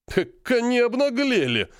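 the colonel caught off guard, high and drawn-out; astonished. Acted. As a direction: exclaim in disbelief. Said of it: "удивлённо отреагировал полковник".

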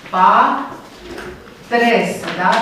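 pa, tres split into syllables with a pause. Shown as a demonstration. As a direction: break pa, tres apart slowly. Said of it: "pluralul lui pater, patres". (despărțit pe silabe: pa, tres)

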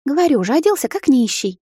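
grimacing retort. Acted. Sister grimaces defending her mistake, sour. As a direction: say it with a wry grimace. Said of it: "скривилась она".

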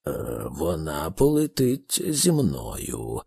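low, slow, calm statement; unhurried, deep and composed. A narrator's reading. Thor tells Arthur she is flying with him, calm. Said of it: "сказав він спокійно".

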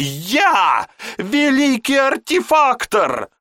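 very high, loud screaming tirade; screaming rage. Acted. Raging mage screams at apprentice over the escaped monkey. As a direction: scream with mounting fury.

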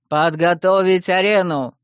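loud commanding call; loud exclaim. Acted. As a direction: call the order out to the arena. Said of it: "воскликнул Аладдин".

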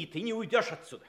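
fast, firm warning; firm threat. Acted. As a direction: lay down the law quickly. Watson blocks the coachman's exit.

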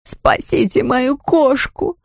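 high, slow desperate plea; cry out. A narrator's reading. Owner pleading with them to save her cat, high and drawn out. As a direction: beg for the cat, pitched high and stretched. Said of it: "снова выкрикнула".

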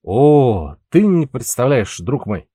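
put-on tongue-tied drunken boast; slurring drunk. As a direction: slur it like a tipsy sailor. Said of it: "заплетающимся языком вещал ему Пауль".

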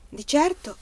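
narrated character's dramatic pronouncement. A narrator's reading. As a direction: say it with theatrical weight. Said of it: "disse con tono drammatico".

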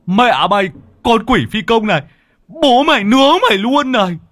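high, loud yell; frenzied high-pitched battle shout; furious cursing. A narrator's reading. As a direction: scream curses at a demon as you attack. Cursing a demon while throwing fire.

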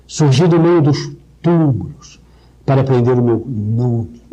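closed, shadowed reading of the verse; darkened recitation. Shown as a demonstration. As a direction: let the U sounds close and darken the lines. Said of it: "Veja como tudo fecha, ensombrece". (recitação sombria, fechando o som)

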